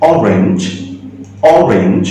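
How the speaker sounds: separate, careful অরেঞ্জ opening on "aw"; pronunciation demo. Shown as a demonstration. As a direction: model অরেঞ্জ with an open "o" at the start. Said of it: "প্রথম উচ্চারণ কিন্তু অ হচ্ছে".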